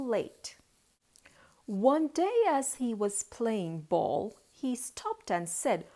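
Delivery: lilting storybook reading; story narration. A narrator's reading. Auntie tells children of a boy and his ball, lilting narration. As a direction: tell it in measured, rhyming phrases.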